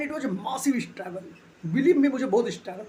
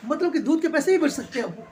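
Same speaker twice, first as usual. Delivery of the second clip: amused laugh; 5 semitones higher than usual. Real, not acted. Amused reply to wife.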